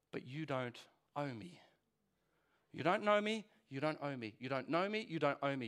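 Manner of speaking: repeated under the breath, rocking between the lines; a private chant to yourself; muttered mantra. Retold or imitated. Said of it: "I say under my breath".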